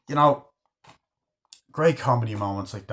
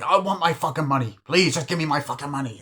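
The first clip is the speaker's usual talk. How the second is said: raised-pitch mock pestering; irritating demand; 4 semitones higher than usual. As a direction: plead insistently, imitating an exasperated creditor.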